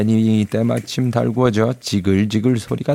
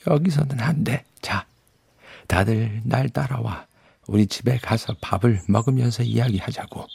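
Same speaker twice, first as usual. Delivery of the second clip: beaver; 2 semitones higher, 3 dB quieter than usual. Acted. Beaver leads them home.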